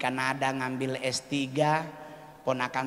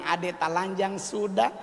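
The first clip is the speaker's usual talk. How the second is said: put-on Papuan accent; 2 semitones higher than usual. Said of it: "Si Pace bilang".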